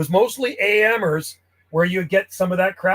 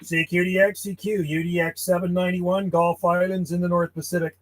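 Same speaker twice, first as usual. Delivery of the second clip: radio CQ call. Acted. Ham operator calling CQ on the radio, steady call-sign delivery. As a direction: call out steadily over the air.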